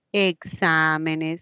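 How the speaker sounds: Exámenes drawn out, leaning on XÁ; stress on antepenultimate syllable. Shown as a demonstration. Teacher showing which syllable takes the tilde, stress on XÁ in Exámenes. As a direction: slowly stretch the stressed XÁ in Exámenes. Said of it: "reciben la mayor fuerza de voz en la antepenúltima sílaba".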